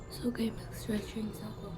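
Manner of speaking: soft voiceless whisper. Real, not acted. Runner whispering to the camera at dawn. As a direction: keep it hushed under your breath. Early morning run, whispering.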